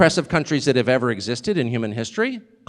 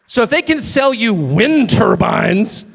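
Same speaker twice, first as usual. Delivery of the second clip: shouted rant; 3 semitones higher, 3 dB louder, slower than usual. Real, not acted. Ranting at the crowd.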